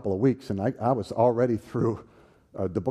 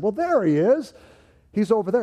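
higher, louder jock calling across the room; 11 semitones higher, 8 dB louder than usual. Retold or imitated. Jock friends spotting him in the cafeteria, loud call. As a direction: holler it out, pointing him out.

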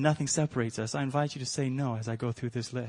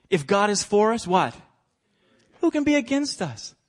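loud proclamation; 7 semitones higher, 5 dB louder than usual. Acted. Preacher contrasts loud and hushed.

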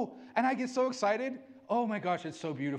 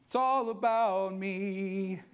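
slow smug boast; 3 semitones lower, much slower than usual. Retold or imitated. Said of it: "so that they'd be seen".

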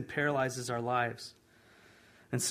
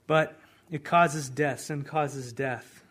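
slow warning; 5 dB louder, much slower than usual. Acted.

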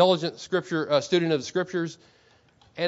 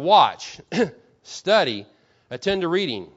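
emphatic declaimed rebuke, each phrase set apart; Martin Luther; 3 dB louder, slower than usual. Acted. Preacher quoting a blunt reformer to the congregation, emphatic declaiming. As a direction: read it out firmly, with weight on each charge. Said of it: "this is how he talked".

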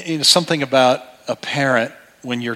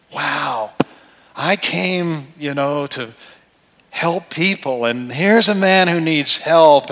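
imagined kind reply; 2 semitones higher, slower than usual. Pretend. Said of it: "How do you think Jesus might respond".

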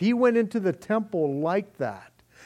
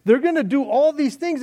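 loud, high, urgent warnings; full-force preaching; 7 semitones higher, 6 dB louder than usual. Acted. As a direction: warn him off, pleading hard.

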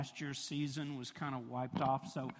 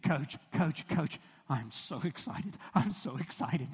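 put-on excited kid. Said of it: "And he said".

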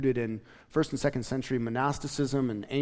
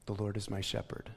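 hushed and low, as if breathing the words in; soft breath prayer; 5 semitones lower, 10 dB quieter than usual. Shown as a demonstration. Pastor shows the congregation how to breathe scripture, hushed. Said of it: "and then you just breathe in".

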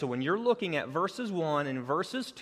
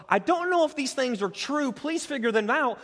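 high, rising, mock-unsure voice; imitating a doubter; 10 semitones higher, 4 dB louder than usual. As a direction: sound lightly puzzled. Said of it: "not calling into question".

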